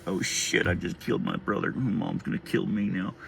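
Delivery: low, hushed aside of dread; retold dismay. Older brother thinking he killed his brother, hushed dismay. Panicked thought after brother fell.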